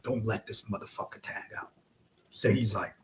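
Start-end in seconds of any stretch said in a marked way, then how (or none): 0.0-1.7 hissed under his breath; urgent whisper. Retold or imitated. Repeating the order to his partner, whispered.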